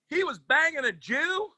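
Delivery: high shouted disbelief; shocked shout. Retold or imitated. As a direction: blurt it out, stunned and laughing.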